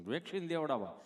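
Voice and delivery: lightly voiced stammering friend; slight catch before the words; tongue-tied Gabho. Gabho answering his friend, mildly tongue-tied. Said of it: "ચોંટે અટકે".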